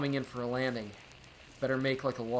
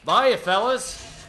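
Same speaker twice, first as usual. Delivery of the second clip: drawn-out goodbye; 10 semitones higher, 13 dB louder, much slower than usual. Acted. Frank drawls a farewell.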